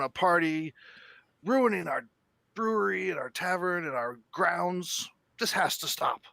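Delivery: a touch of an exasperated dwarf scolding; stout dwarf brewmaster. Acted. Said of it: "she stands up and she goes".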